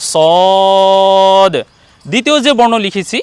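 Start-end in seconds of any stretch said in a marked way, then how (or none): 0.1-1.5 সদ with long level o; distinct saad. Shown as a demonstration. Teacher names the first letter written, long held সদ. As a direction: hold out সদ firmly, closing on d. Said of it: "এ বর্ণ হলো".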